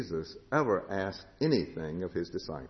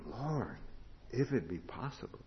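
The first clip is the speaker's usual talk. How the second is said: hushed prayer; 3 semitones higher, 7 dB quieter than usual. Acted. Jesus praying again.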